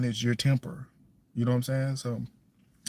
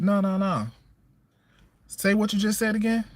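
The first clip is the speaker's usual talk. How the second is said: stern confrontation; 9 semitones higher than usual. Retold or imitated. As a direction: dare him to repeat it. Parent confronting cussing son.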